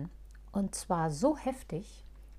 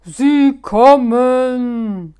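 loud, slow, drawn-out alarm cry; shout; 4 semitones higher, 18 dB louder, much slower than usual. Acted. Moosbart warning the others the cats are coming, shouting. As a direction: yell the warning across the street. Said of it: "Plötzlich schrie Moosbart".

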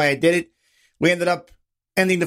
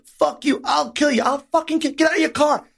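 tumbling, heated threats at mock volume; retold screaming; 7 semitones higher than usual. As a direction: act out a road-rage shouting match. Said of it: "we're screaming".

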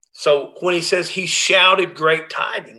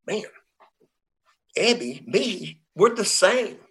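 amazed Bill; 5 semitones higher, slower than usual. Retold or imitated. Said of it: "He goes".

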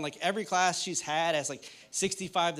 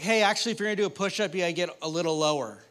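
know-it-all husband; 4 dB louder, faster than usual. Retold or imitated. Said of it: "and I was like".

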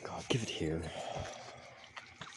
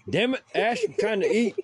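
annoyed yell; 10 semitones higher than usual. Real, not acted. Friend yelling while eating.

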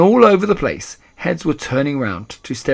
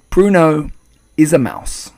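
calm; 4 semitones higher, 8 dB louder than usual. A narrator's reading. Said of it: "calm as ever".

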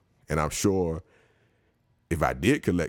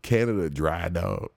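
mocking repeat; 3 semitones higher than usual. Real, not acted. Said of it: "That's all you come up with".

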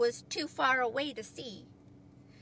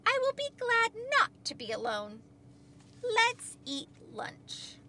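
high, cheerful character voice; glad Frog; 9 semitones higher than usual. A narrator's reading. Frog welcomes Toad's company for lunch, gladly. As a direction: announce it happily, pitched well up.

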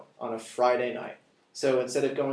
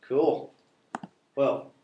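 echoing voice in a big empty room; speaking with a hollow echo on it; echoey voice; 4 dB louder than usual. Real, not acted. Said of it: "my voice is really, it's, like, really echoey".

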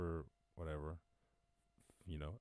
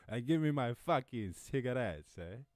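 put-on higher, louder cranky old-timer demand; feisty old smoker; 5 semitones higher, 6 dB louder than usual. Host voicing the hundred-year-old survivor, cranky demand. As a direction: play the stubborn old patient wanting smokes.

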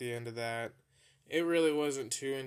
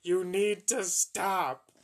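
crying plea; 6 semitones higher, 7 dB louder than usual. Retold or imitated. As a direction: beg him to stop through tears. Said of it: "I was sitting there crying".

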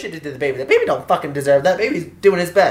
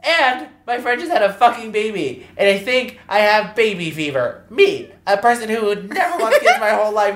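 high, hammed-up outburst; mock-distraught confessing; worked-up confession; 6 semitones higher than usual. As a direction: replay a meltdown at high pitch. Retold emotional outburst to brother.

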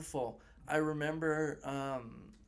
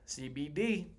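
whisper; slower than usual. Pretend. Mock secretive about drugs.

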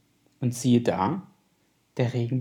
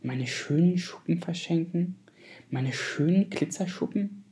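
horrified; 4 semitones higher, 4 dB quieter than usual. Acted. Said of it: "dachte der Regenbogenfisch entsetzt".

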